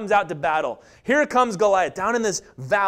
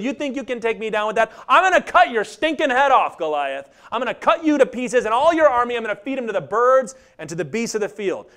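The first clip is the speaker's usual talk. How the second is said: defiant threat. Retold or imitated. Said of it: "No, he said".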